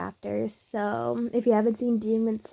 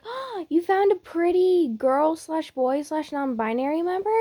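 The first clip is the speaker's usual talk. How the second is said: gushing Zenitsu; 6 semitones higher than usual. Acted. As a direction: gush over a sweet discovery. Zenitsu gushes over the find.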